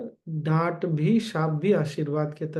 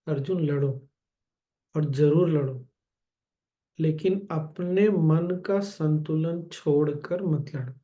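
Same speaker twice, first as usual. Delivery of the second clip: calm and loving. Retold or imitated. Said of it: "इतने प्यार से बोला नहीं ना, शांति से बोला नहीं ना".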